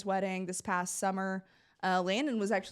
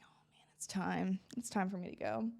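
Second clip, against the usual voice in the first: whisper; 2 semitones lower, 7 dB quieter than usual. Retold or imitated. Thinking to herself, resigned.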